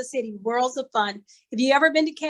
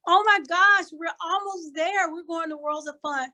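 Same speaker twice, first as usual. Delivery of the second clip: put-on excited child; 3 semitones higher than usual. Granddaughter excited on plane.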